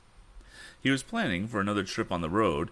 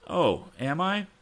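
grim; 11 semitones higher, 3 dB louder, slower than usual. A narrator's reading. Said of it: "thought Tom with a grim look".

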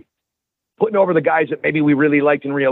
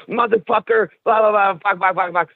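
higher, sputtering mock cursing; mock furious rant; 5 semitones higher than usual. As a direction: act out the friend losing it over a toy. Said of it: "he's like".

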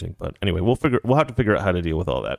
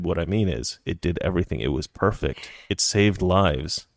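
low, softer deadpan disclaimer; deadpan sarcasm; 5 semitones lower, 3 dB quieter than usual. Pretend. Host covering herself for YouTube, deadpan sarcastic.

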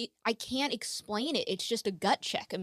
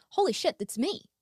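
stunned exclamation; 7 semitones higher than usual. Retold or imitated. Recalls shock hearing sister's voice.

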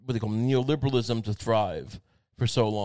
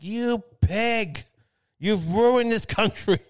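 high mock yell; 8 semitones higher, 3 dB louder, much slower than usual. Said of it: "Just yell".

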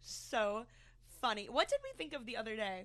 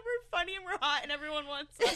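mock self-hyping; 3 semitones higher, 4 dB louder than usual. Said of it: "us just hyping each other up".

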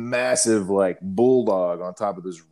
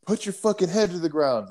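retold sergeant yelling; 11 semitones higher than usual. Lane grader yelling at a soldier to keep his head down, mock angry yell. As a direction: bark it like the lane grader losing patience. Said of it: "He's like".

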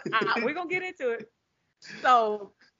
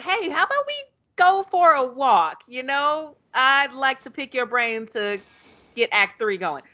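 higher-pitched, coaxing invitation; mock perky invitation; 4 semitones higher than usual. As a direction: propose it lightly in a raised voice. Lexi's invitation, acted out.

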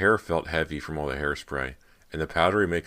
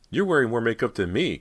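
higher and louder, words tumble out; blurting out; 8 semitones higher, 7 dB louder than usual. A narrator's reading. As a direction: blurt it before thinking. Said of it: "Cody blurted out".

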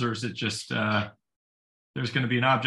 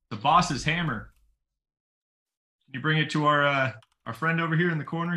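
calling out; 3 semitones higher than usual. Acted. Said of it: "he's gonna yell back to the guys".

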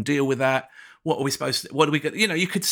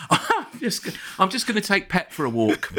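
high, airy, laughing; casually walk away from chaos; breezy wife voice; 5 semitones higher than usual. Retold or imitated. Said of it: "she's just gone".

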